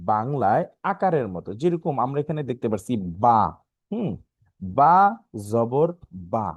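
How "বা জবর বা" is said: "বা জবর বা" word by word, ending on an open aa; spelling drill. Shown as a demonstration. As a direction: sound out "বা জবর বা" with pauses between words. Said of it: "জবরের উচ্চারণ হচ্ছে বাংলায় আকারের মতো".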